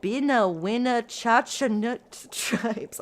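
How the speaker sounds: slow, garbled, breaking into laughs; stumbling laughing. Real, not acted. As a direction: fight laughter through hard names. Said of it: "I'm so sorry".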